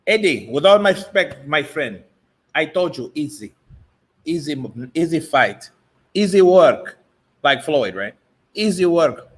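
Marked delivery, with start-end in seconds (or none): 0.1-7.0 put-on a light Cuban gangster accent, Tony Montana style; mock Scarface accent. A boxer teased in a mock Scarface accent. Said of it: "I do not sound like Scarface". 8.5-9.3 put-on a light Cuban gangster accent, Tony Montana style; mock Scarface accent. A boxer teased in a mock Scarface accent. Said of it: "I do not sound like Scarface".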